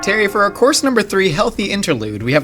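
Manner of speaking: presenting a fancy course menu; measured, itemised food presentation. Acted. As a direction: announce each dish like a show host.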